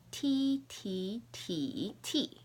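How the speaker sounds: "T" as "tee": high level, rising, dipping, falling; four tones demo. Shown as a demonstration. Teacher modelling for learners, four tones on "tee". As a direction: step "T" through the four Mandarin tones, last one short. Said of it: "Those are the four sounds".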